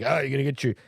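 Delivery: teasing, incredulous "oil up your shovel?"; a hint of mock amazement at an old custom; mocking disbelief. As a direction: poke fun at the old advice. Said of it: "I always laugh about this. I'm like".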